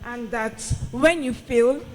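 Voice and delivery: wearing a retainer. Real, not acted. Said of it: "retainers in case I sound funny".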